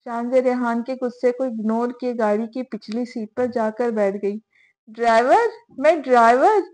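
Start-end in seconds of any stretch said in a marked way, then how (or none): 4.9-6.6 indignant disbelief. Acted. Rehan indignant at being called driver.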